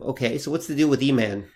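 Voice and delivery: ordinary talk, nothing marked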